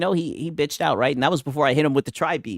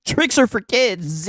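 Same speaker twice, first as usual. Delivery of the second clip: slow mocking echo; drawn out, mocking the line; 6 semitones higher, slower than usual.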